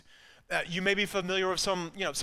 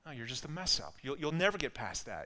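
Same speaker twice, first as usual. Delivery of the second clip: softer, understated voice of an accuser; whispering accuser; 3 semitones lower, 6 dB quieter than usual. Acted. The accuser telling a believer of their past, hushed put-down. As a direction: quietly plant the discouraging thought. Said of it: "whispering in your ear".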